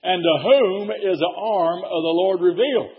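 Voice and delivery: slow, solemn reading; solemn King James reading; scripture recitation. Acted. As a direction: intone the verse. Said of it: "the Bible said".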